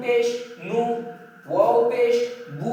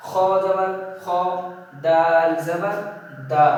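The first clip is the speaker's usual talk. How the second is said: measured Quran-class recitation, long vowels drawn out; teacher's slow spelling-out; Arabic letter drill; 3 semitones lower, slower than usual. Shown as a demonstration. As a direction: chant each letter with its vowel, pausing before the syllable.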